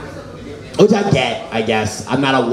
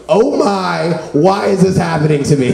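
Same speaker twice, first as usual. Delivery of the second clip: mock crying. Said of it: "Whenever I cry, I always say".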